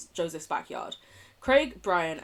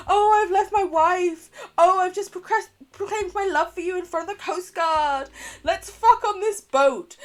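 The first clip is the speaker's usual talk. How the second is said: loud, high mock declaration of love; mocking imitation; 11 semitones higher, 9 dB louder than usual. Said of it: "He's like".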